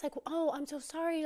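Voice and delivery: high-pitched "oh" of pity; sympathetic. Retold or imitated. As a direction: offer mildly awkward sympathy. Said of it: "she's feeling sympathetic".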